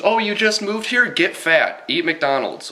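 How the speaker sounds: high, put-on parody voice; hammed-up high-pitched nagging; mock demanding local. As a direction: exclaim it in a silly high mocking voice. Parodies demands made of newcomers.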